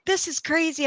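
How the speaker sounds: high-pitched amazed disbelief; ecstatic. Retold or imitated. Telling of ghost sighting to cousin, high amazed voice. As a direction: let it jump up in wonder.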